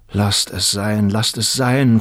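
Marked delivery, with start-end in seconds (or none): 1.1-2.0 louder repeat, a mild plea; a young man pleading with the woman he loves, a touch louder. Acted. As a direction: beg her to let it be. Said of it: "flehte Turiddu".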